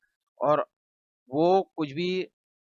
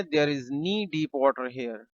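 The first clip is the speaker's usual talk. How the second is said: slow model sentence; much slower than usual. Shown as a demonstration. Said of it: "हम कहेंगे".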